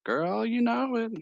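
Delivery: put-on high, drawn-out Valley Girl reply; sassy Valley Girl, taking her time. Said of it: "kinda like a Valley Girl".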